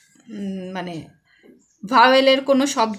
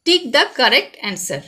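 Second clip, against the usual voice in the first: slow dictation; much slower than usual. Shown as a demonstration. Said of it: "reading instruction to pupils".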